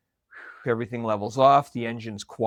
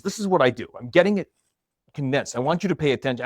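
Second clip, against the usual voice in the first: intense retold quote; 4 semitones higher, 4 dB louder, faster than usual. Husband intensely explains condensing energy.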